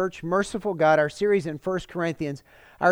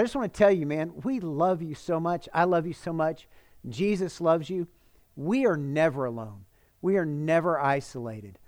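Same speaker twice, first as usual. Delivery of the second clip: tender. Real, not acted. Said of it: "I'm getting emotional right now".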